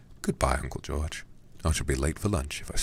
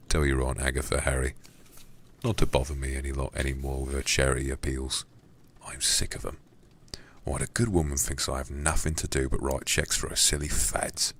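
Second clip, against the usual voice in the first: put-on Cockney accent. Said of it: "a Cockney voice for this guy".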